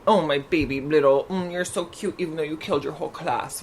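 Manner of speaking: cooing, indulgent mock mom; baby-talk a spoiled kid, lightly; a hint of a doting mother; doting parent voice. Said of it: "there is that fine line between".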